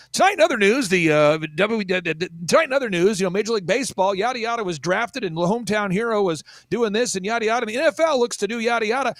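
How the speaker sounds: a hint of a peppy sportscaster; cheerful news read; mock bright sports segment; upbeat sports anchor. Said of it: "so it'd be sports".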